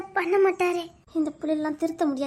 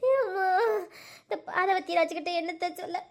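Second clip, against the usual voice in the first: crying despair. Acted.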